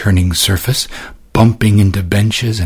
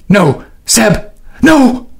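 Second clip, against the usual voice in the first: high, anguished no; desperate cry; 12 semitones higher, much slower than usual. A narrator's reading. Sister crying out as her brother falls, anguished. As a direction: plead as he slips away.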